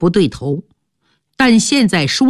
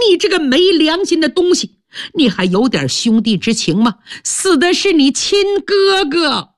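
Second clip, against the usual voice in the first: father's scolding; 7 semitones higher than usual. Acted. Father scolds his son.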